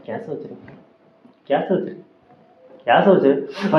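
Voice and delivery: mock repeated prodding, building from soft; pestering girlfriend. Girlfriend repeatedly interrupting quiet man, mock pestering. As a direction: lightly imitate a nagging partner. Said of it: "तो घड़ी घड़ी आके".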